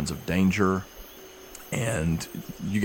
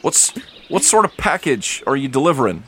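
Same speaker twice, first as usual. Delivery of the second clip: guard questioning; 5 semitones higher than usual. Acted.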